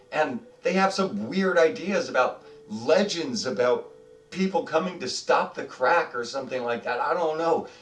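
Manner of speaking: put-on high, slow old goblin voice rising to a cry; the old goblin scolds the strangers about the crack; old goblin explaining. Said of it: "He says".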